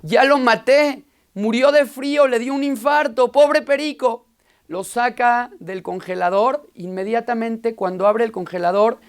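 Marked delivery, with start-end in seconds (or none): 0.0-4.2 frightened rabbi. Acted. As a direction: panic that you killed the bird. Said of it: "El rabino se asustó".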